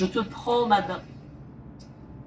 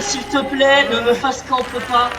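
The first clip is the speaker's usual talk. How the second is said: slow pleading; slower than usual. Acted. Begs killer not to camp.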